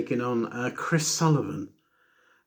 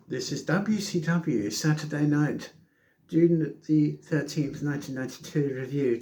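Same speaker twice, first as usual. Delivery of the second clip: slightly raised, lightly posh announcer voice; 3 semitones higher than usual. Acted. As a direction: put on a light posh English accent for the intro. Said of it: "Do you like my posh voice?".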